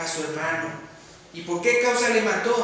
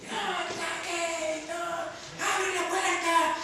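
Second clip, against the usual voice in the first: retold cries; 9 semitones higher, slower than usual. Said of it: "se oían los gritos en una casa".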